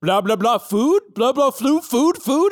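rising, high blah-blah with stray words; human gibberish. Acted. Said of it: "His person is like".

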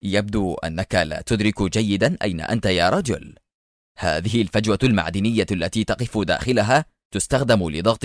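understated, unbothered taunting; offhand sarcastic menace; mocking nonchalance. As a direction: explain it calmly with a touch of scorn. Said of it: "وهو يقول في استهتار ساخر".

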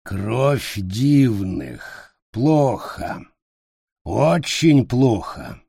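very slow dismayed goblin, кровь dragged out; grumbling goblin, disappointed; slow, heavy creature voice. Acted.

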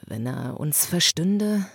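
half questioning. Acted. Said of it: "sagte der Vater halb fragend".

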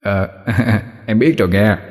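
lightly acted sly chuckle; sly wicked laugh. Demon hatches plan about old man, sly chuckling. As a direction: chuckle slyly, then speak knowingly. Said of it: "Hai Nanh cười gian xảo".

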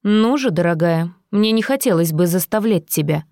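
silky threatening villain; menacing villain. Acted. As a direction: purr the threat with mock affection. Villain voiced by narrator.

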